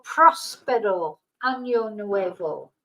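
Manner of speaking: slow careful Spanish "Próspero Año Nuevo"; Spanish pronunciation. Shown as a demonstration. Teaching viewers, slow careful Spanish.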